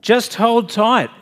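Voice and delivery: slow, high-pitched yell from below; yelled back. A narrator's reading. Stranger on the rope to the man above, yelling back. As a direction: call back up, stretching out each word. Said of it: "the stranger yelled back".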